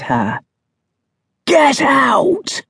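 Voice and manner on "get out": shouting. Acted. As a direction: bark it to drive her off. Man shouts her away.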